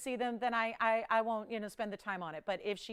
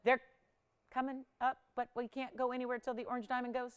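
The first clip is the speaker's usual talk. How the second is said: flat robotic monotone. Real, not acted. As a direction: talk like a robot. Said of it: "Why am I talking like a robot?".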